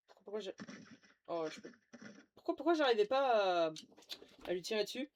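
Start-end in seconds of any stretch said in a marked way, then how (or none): 2.3-5.1 raging gamer. Real, not acted. Gamer can't shoot the modder.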